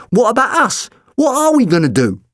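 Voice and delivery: put-on high, worried young man; anxious Mickey. A narrator's reading. Mickey pleads with the Doctor, alarmed and high. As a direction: panicky questions from the sidekick.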